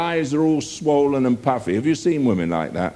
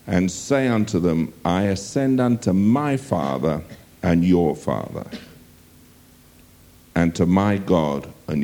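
scripture reading. Acted. Preacher reading the Gospel passage to his congregation, measured and solemn. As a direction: read it aloud like a lesson from the pulpit. Preacher reads John chapter twenty.

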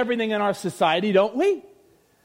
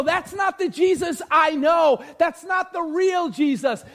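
slow, insistent call for the real Jesus; mock protest, a touch raised; imagined outburst; 3 semitones higher, slower than usual. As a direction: demand it, dragging the last line. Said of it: "And you wanna go".

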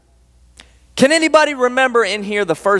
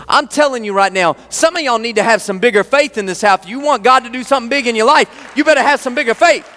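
fired-up preaching; 3 semitones higher than usual. Real, not acted. Preacher urging the church to bigger faith, fired up. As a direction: drive it at them, fired up. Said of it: "I'm sorry, I'm fired up".

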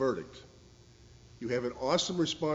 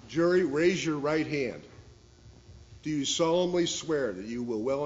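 formal command; 4 semitones higher, 5 dB louder than usual. Acted. Judge commands the standing jury.

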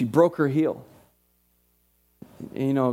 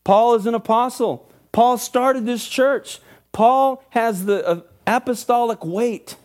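raised-pitch, emphatic pulpit delivery; high, driving sermon voice; impassioned preaching; 5 semitones higher than usual. Real, not acted. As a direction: preach the apostle's appeal with conviction. Preaches the letter with rising force.

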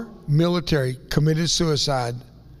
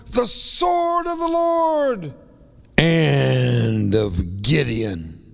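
proclaiming Gideon's battle cry; 2 semitones lower, much slower than usual. Retold or imitated. Preacher voicing Gideon's drawn-out battle cry to his men. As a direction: ring it out slowly like a battle cry. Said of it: "and he shouts".

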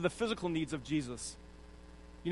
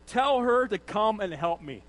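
mock command; 4 dB louder than usual. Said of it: "It's not a request, it's a command".

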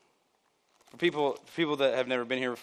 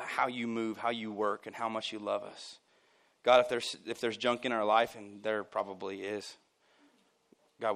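prayer. Real, not acted. Pastor leads closing prayer.

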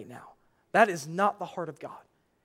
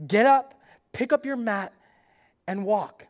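firm command; 3 semitones higher, 4 dB louder than usual. Retold or imitated. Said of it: "Jesus tells him".

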